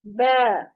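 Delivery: ब with a thin vowel through smiling lips; lips spread. Shown as a demonstration. Teacher showing the letter as for a photo smile, lips spread. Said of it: "smile जो करते हैं उस अंदाज में".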